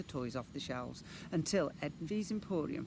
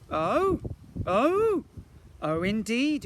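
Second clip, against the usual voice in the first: high, loud repeated ohs; eager agreement; 9 semitones higher, 10 dB louder, much slower than usual. A narrator's reading. Boy agreeing with twins, high eager exclamation. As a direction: agree loudly, high-pitched. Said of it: "agreed Ned".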